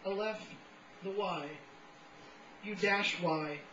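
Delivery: measured recital with deliberate pauses between phrases; poetry reading. Acted. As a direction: set each fragment apart like an incantation. Reads poems aloud to audience.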